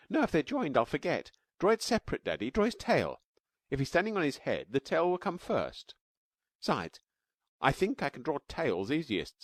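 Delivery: put-on high, bright-eyed child voice, eager; little girl Taffy. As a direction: play a small girl explaining her drawing.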